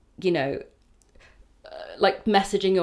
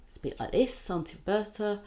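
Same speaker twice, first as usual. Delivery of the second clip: put-on Jewish accent; 3 semitones higher, 6 dB quieter than usual. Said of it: "very Jewishy accent".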